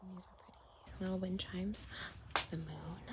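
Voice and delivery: barely audible whispered commentary; talking low. Real, not acted. Shopper admiring wind chimes in a quiet store, whispering low. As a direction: whisper it to yourself while browsing. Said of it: "I'm talking kinda low 'cause the store is quiet".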